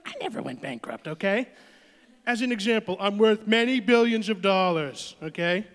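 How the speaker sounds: lightly voiced Trump, boastful; Trump impression. Comedian as Trump boasting about his wealth, mild Trump voice. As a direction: insist on the billions with swagger. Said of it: "talk like Trump".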